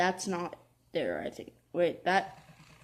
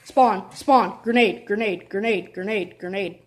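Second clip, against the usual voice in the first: urgent repeated callout yelling; grenade warning yell; 8 dB louder than usual. Real, not acted. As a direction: shout the warning fast. Calling out enemy spawn.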